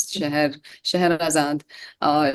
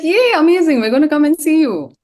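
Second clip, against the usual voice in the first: much higher and louder, bubbling over with glee; excited squeal; 9 semitones higher, 7 dB louder than usual. Retold or imitated. Retelling her delighted reply to her friend, a high loud squeal. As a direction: squeal it like a thrilled fan hearing great news. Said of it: "I was like".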